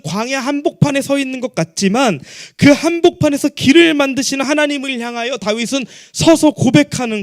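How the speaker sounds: high, forceful pulpit proclamation; projected sermon delivery; impassioned preaching. Acted. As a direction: preach it out high and sustained, driving every phrase.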